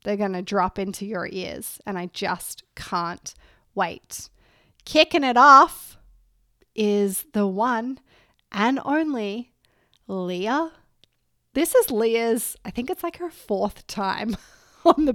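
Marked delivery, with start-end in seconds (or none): 4.8-10.7 loud, hyped-up announcement; excited. Real, not acted. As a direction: build hype for the guest. Hyping up the guest.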